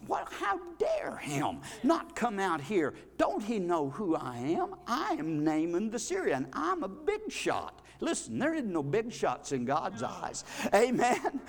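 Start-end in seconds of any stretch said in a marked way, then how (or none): 0.1-7.8 offended big shot. Retold or imitated. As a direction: play the insulted general, only lightly. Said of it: "He got in a rage".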